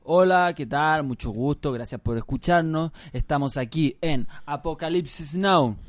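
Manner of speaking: drawn-out radio host greeting; show intro. Pretend. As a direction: welcome listeners like a radio host, stretching the show title. Rehearses the show's intro. (presentación de locutor, pausada)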